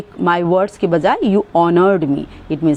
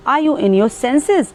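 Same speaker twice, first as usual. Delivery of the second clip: a bit angry; 7 semitones higher, much slower than usual. Shown as a demonstration. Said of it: "थोड़ा सा आप गुस्से में हैं तो".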